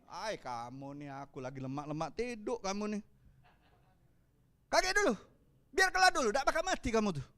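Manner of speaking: mock-annoyed mumble, lightly voiced; grumpy woken Jesus.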